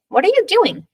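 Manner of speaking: put-on high, wondering child's voice; curious little boy. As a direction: ask like a puzzled kid. Curious boy questions grandpa.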